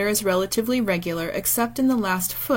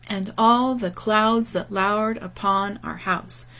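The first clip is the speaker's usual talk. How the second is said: slow verse line, stress on every second syllable of "And all the clouds that lowered upon our house"; iambic rhythm. Shown as a demonstration. Lecturer demonstrating Shakespeare's meter, slow iambic beat on "And all the clouds that lowered upon our house". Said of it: "pretty easy to hear that iambic rhythm".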